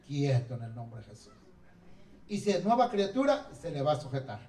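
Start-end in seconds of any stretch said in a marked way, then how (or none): 0.1-1.3 command to a dog. Shown as a demonstration. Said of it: "solamente diga".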